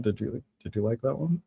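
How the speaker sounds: normal talking voice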